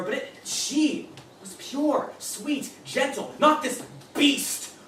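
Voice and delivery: a soured fantasy cracking into rage; rising bitter disbelief. Acted. Idealized her, then disgust.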